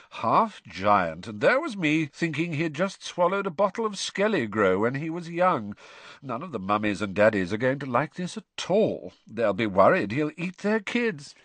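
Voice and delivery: lightly voiced smug schoolboy, mocking; a hint of a jeering bully; taunting the others about Hagrid, gloating; sneering Malfoy.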